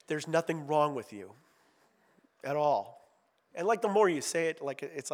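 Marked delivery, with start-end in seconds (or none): 0.1-3.1 compassionate, kind. Retold or imitated. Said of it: "in a very compassionate, kind way".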